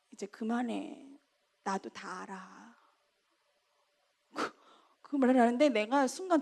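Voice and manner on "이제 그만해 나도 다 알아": much softer, tired brush-off; a hushed fed-up "enough"; quiet curt reply. Retold or imitated. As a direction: say it low and done with it. Friend's curt reply retold.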